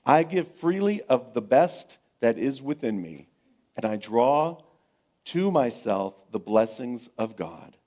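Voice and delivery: slow solemn affirmation; reading the affirmation. Real, not acted. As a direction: declare it for the congregation. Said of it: "I'm gonna read this".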